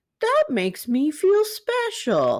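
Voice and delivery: high, slow, swooping, sing-song toy voice drawl. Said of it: "he would say".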